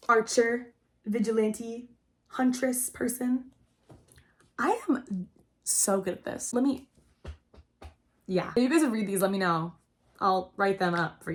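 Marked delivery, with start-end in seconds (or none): 4.6-6.5 a smug little whisper to herself; whispered aside. Real, not acted. Vlogger whispering praise to herself. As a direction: breathe it out under her breath, slow.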